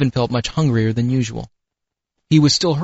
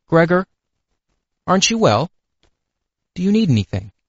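plaintive; 6 semitones higher than usual. A narrator's reading. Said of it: "his sister came plaintively".

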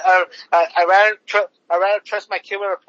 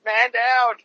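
mock officer panic; 4 semitones higher than usual. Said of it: "And the officer went".

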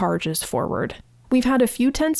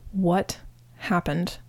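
hushed whisper; 3 semitones lower, 5 dB quieter, slower than usual. Retold or imitated. Lucas asks after the attack.

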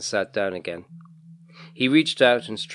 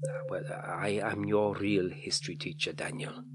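kindly; 2 semitones lower, 7 dB quieter than usual. A narrator's reading. Man tells the boy he is his real teacher, kindly. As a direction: break it to him gently, dropping quieter. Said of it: "said the man kindly".

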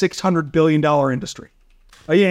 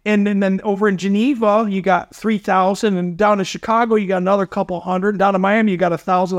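incredulous retort. Retold or imitated. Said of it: "I was like".

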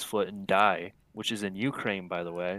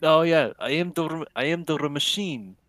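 imitating Bert Kreischer; 4 semitones higher, 4 dB louder than usual. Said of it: "Bert Kreischer stand-up where he's the machine".

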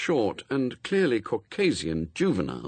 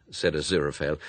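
plain reading voice

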